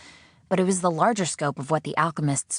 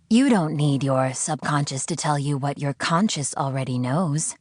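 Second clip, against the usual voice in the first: calm, preachy interrogator; a captor's voice. Acted. The unseen voice lecturing its prisoner, lightly voiced calm preaching. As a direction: lecture her like a cold zealot.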